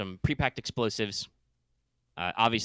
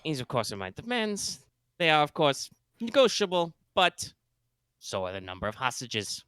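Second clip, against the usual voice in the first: put-on space German accent; 4 semitones higher than usual. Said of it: "My, my space German accent".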